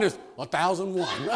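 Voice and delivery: "a thousand one" said as a slow count; counting slowly. Shown as a demonstration. Preacher demonstrating how to count, slow counting. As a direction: show how to count properly. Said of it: "it's not, not one".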